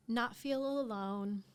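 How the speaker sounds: holding back tears, slowly; teary-eyed. Real, not acted. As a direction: voice close to tears. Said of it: "Sorry, I'm getting teary-eyed".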